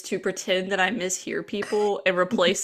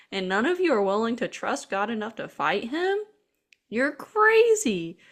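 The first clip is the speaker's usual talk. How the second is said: high, earnest mock outrage; indignant Dave; 4 semitones higher than usual. Little brother scolding the soldiers, indignant and high-pitched. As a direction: scold them in a high, incredulous voice.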